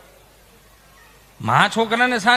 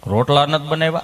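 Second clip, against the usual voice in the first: weary husband; 8 semitones lower than usual. Retold or imitated. Husband asks tired wife.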